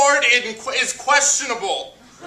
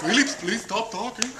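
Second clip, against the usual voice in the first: Mrs. Martinez the teacher; 6 semitones higher than usual. Acted. Acts out teacher addressing the class.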